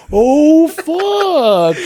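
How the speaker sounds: high, loud startled "Oh, fuck"; alarmed yell. Retold or imitated. Retelling the night a gun pushed through the door, startled yell. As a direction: shout it as the gun appears.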